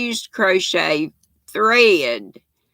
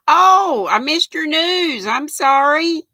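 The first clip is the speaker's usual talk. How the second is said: surprised apology; 8 semitones higher, 3 dB louder than usual. Real, not acted. Realizes she missed news.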